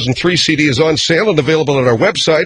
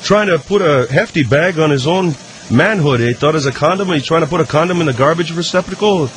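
Moose McGoran. Acted. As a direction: drag it out like a dopey hockey player. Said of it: "trying to do a Canadian voice".

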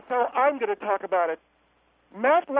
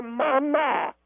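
voice cracking. Real, not acted. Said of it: "my voice cracked".

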